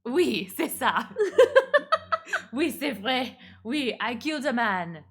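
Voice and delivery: gleeful confession. Acted. Gleeful confession, slow then laughing.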